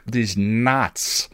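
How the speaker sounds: ordinary delivery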